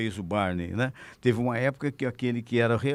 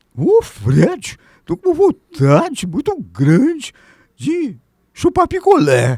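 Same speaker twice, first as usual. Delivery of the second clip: very loud, very high, swooping cartoon voice; 12 semitones higher, 12 dB louder than usual. Answering which role he voiced in dubbing: Barney cartoon voice. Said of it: "o Barney chupava picolé".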